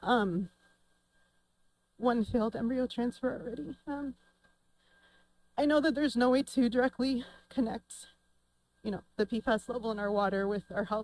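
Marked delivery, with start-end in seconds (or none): 0.0-3.8 holding back tears, fighting to stay composed. Someone going through IVF treatment speaks up publicly, holding back tears. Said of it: "I'm trying not to get emotional".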